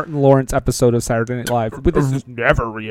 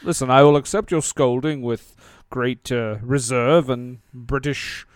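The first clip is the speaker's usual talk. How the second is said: lightly put-on stately British actor; Ian McKellen. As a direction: play a puzzled British thespian, lightly. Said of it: "Sir Ian McKellen".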